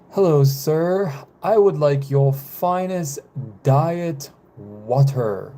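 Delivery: slow, drawn-out fake French accent; badly faked French accent, ordering grandly at a restaurant; attempted French accent. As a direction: put on a wobbly French accent, slowly. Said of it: "trying to do an accent".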